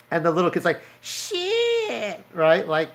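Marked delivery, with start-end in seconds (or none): 1.0-2.2 very high, strained exclamation; shocked squeak. Retold or imitated. Little kid gasping at the cursing, high shocked squeak. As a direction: squeak it out in disbelief.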